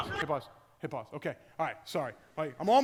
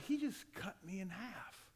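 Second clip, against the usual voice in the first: crushed mumble; 12 dB quieter than usual. Retold or imitated.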